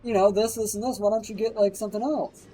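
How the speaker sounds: high, gentle coaxing mom. Retold or imitated. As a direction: sweet-talk the stubborn son. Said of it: "and his mom was like".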